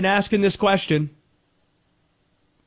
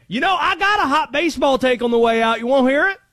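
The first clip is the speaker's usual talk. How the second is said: Conspiracy Josh; 9 semitones higher than usual. Acted. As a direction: rant high and stretched, piling up suspicions. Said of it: "Josh just assumes they're going after Tarek Skubal".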